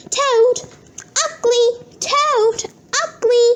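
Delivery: shouted, high taunting yells; childish shouted taunts; name-calling. Acted. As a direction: yell the insults at your brother. Brothers' name-calling quarrel.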